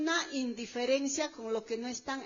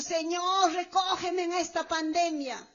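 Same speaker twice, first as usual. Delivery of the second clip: raised imploring call; mock plea; 3 semitones higher than usual. Believer praying to God in the pandemic, pleading. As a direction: imitate a desperate prayer, mildly raised. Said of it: "O has dicho".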